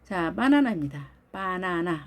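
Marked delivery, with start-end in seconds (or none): 1.3-2.0 "바나나" with three even, open a sounds; Korean-style ba-na-na for "바나나"; Korean pronunciation. Shown as a demonstration. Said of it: "우린 이렇게 표현을 하죠".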